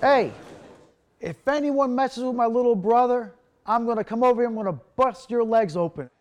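loud, high retold threat to the whole lunchroom; threatening shout. Big brother warning the cafeteria kids, loud and menacing. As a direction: bark it out like a tough big brother. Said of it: "and he's like".

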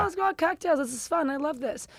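put-on high, bubbly party-girl voice, lightly done; imitating her carefree drinking self, chirpy and high; mock party girl. Imitating her old self, chirpy party girl. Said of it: "I'm like".

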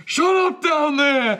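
high, drawn-out mock scream; imitated screaming. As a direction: scream down a drain in character. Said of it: "He's screaming into it".

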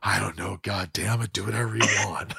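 mild mock irritation; Clint Eastwood. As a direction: imitate a laconic man briefly losing patience. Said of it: "he just lost his cool".

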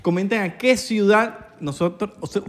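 tipsy, tripping over words. Real, not acted. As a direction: speak like you've had too much. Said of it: "ya estoy borracho".

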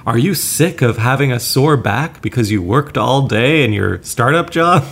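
slow, pitchy TV pitchman; infomercial voice. Pretend. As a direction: sell it like a late-night ad. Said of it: "I'm putting on this infomercial voice".

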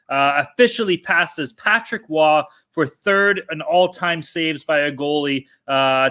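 slow, measured announcement of a milestone; news read. Real, not acted. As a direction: read the update out slowly and deliberately. Reads a news post aloud.

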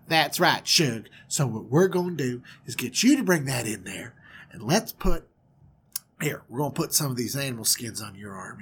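lightly voiced Southern mother; southern twang. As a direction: coax him along in a Southern twang. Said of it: "she's got that southern twang".

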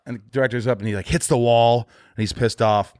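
normal talking voice

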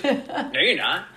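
security guard. Acted. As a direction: refuse slowly, with a laugh underneath. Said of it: "And she goes".

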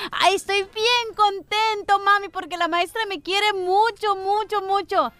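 put-on slow, sing-song proud kid; lightly voiced boy, slow and proud; happy child. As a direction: drag it out like a pleased little boy.

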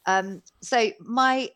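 normal talking voice

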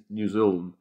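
imitated Kiwi vowels; squashed Kiwi pronunciation of the country's name; New Zealand accent. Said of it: "kind of sort of gets it right".

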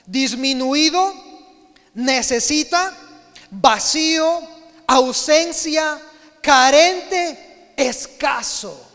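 forceful sermon list; emphatic list. Real, not acted. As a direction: preach every meaning with full force. Preacher listing word meanings.

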